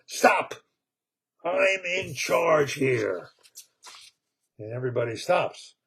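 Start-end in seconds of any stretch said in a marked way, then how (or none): 0.1-3.3 put-on bossy baby voice. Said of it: "all of a sudden they hear".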